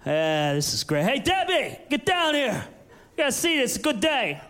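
low, relaxed happy neighbor; a lightly voiced neighbor in a bathrobe, contented. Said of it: "just being like".

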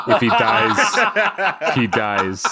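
slow, lightly voiced Russian boxer; a hint of a cold Russian fighter; Ivan Drago. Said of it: "Rocky four".

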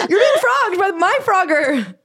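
giggling, slowed, high words; can barely get it out for laughing; laughing through it. Real, not acted. Laughing while telling joke.

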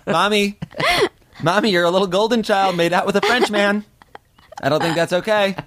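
put-on high, whiny kid tattling voice; childish threat. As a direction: tattle on her like a kid sister.

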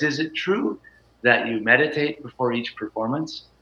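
softly imitating a meek, sweet interviewer. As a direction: ask it gently and shyly, lightly voiced. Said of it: "she has this kind of meek, sweet voice".

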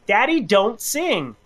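a hint of a toddler protesting "Daddy, don't sing". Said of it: "He looks me in the eye and goes".

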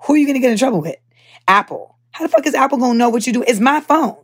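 heated customer venting; exasperated rant. Real, not acted. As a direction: fire off the complaints, fed up. Arguing with tech over Apple rules.

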